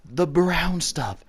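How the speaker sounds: drawn out slowly and loud; slow, meaningful. Retold or imitated. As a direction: spell it out slowly. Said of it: "she goes".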